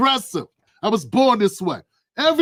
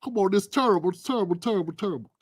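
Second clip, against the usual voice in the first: imitating Barkley; 5 dB quieter, faster than usual. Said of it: "He's like".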